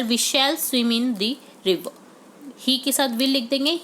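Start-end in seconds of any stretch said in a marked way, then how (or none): 0.0-1.9 very slow example sentence; slow dictation read. Shown as a demonstration. Teacher dictating the answer sentence to students. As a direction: dictate it word by word.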